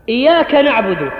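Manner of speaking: إياك with a light single y, iyaaka; unstressed iyaka. Shown as a demonstration. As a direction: drop the doubling on the y of إياك. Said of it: "لا يقول إياك نعبد بالتشديد". (إياك بتخفيف الياء دون شدة)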